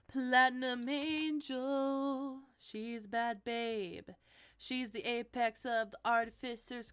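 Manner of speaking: slow, drawn-out flavor-text recital; measured theatrical read-aloud; dramatic card reading. Acted. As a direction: savor each phrase, stretching the words. Reads card name and flavor text.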